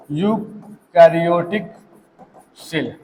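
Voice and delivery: यूकैरियोटिक stretched slowly, then cell dropped soft; slow, drawn out. Shown as a demonstration. Teacher slowly dictating eukaryotic to students, drawn out. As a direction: drag out eukaryotic for the class to catch.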